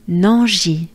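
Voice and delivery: "Nanji" as one merged French word; syllables flowed together. Shown as a demonstration. Teacher has learners repeat it, syllables flowing together. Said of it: "make them flow together".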